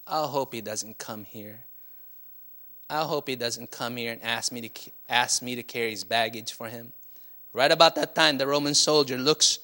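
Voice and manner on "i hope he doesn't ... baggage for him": much softer and lower, fretting under his breath; hope nobody hears you; worried murmur. Retold or imitated. Merchant fearing the soldier.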